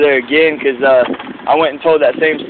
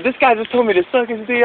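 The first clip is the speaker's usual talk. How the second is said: higher, whiny tattling voice; mock complaining boss; 9 semitones higher than usual. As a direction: play the boss telling on him.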